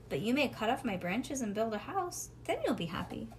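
animated bedtime story, lilting character lines; storybook reading to a child. A narrator's reading. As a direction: read a picture book aloud, lifting the tree's lines. Reads a storybook aloud to child.

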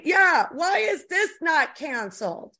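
slow, high, indignant shout; outraged shout. Real, not acted. To her co-host about the comic, an outraged slow shout.

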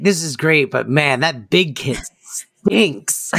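slow, drawn-out grandma voice; lightly voiced old grandma, slowly; Yetta. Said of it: "Yetta going".

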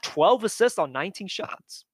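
words pushed out through a burp; talking through a burp. Real, not acted. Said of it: "sorry for the burp".

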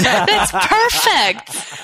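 slow, high and loud through laughter; laughing. Real, not acted. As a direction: laugh it out, delighted. Laughing at the joke.

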